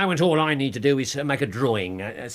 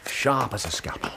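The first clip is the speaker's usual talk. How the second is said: whisper; 3 semitones lower than usual. Real, not acted. Hushed exchange.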